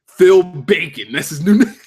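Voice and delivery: real laugh bursting out after the words; tickled, dissolving into high giggles; cracking up. Real, not acted. Streamer amused by chat's new wrestler nickname, cracking up.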